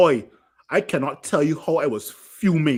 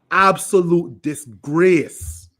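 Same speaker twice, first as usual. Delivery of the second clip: slow angry verdict; 3 semitones higher, 5 dB louder, much slower than usual. Real, not acted. Furious rant at goalkeeper.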